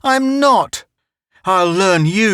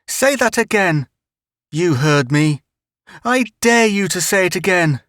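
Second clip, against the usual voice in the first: taunting bully; 7 semitones higher than usual. Acted. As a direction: jeer at him, spoiling for a fight. Bully taunting child in fight.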